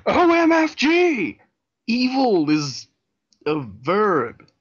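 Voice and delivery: very high, slow, loud squeal; milk each letter like a fangirl; hammed-up exclamation.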